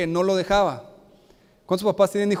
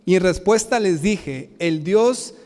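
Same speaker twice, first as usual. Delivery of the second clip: scripture reading. Acted. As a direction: read the verses with weight. Reads scripture aloud.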